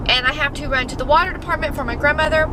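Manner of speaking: chewing gum while talking; mouth full. Real, not acted. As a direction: talk around a piece of gum. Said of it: "I got gum in my mouth".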